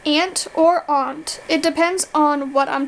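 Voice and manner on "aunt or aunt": AUNT first like "ant", then like "ahnt"; two pronunciations. Shown as a demonstration. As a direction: give AUNT both ways, "ant" or "ahnt". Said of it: "How do you pronounce these words?".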